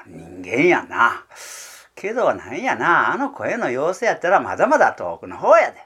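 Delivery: lightly voiced heron, reassuring itself; the wary heron, calmer now; heron talking to itself. (鷺の独り言、軽い声色)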